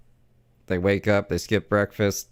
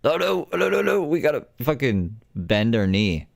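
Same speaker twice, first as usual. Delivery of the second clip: mock panic; 2 semitones higher than usual. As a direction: ham up a spineless corporate panic. Mocking McDonald's caving in.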